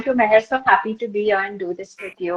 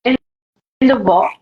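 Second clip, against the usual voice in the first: monologue reading. Acted. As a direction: read it out phrase by phrase, letting each one land. Reads a monologue aloud.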